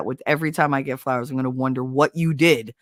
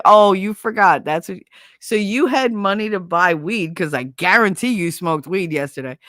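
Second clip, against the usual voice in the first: retold angry sarcasm; 3 semitones higher, 4 dB louder than usual. Confronting Miguel in story.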